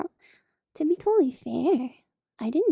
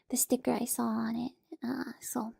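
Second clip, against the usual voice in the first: whispering; 6 dB quieter than usual. Real, not acted.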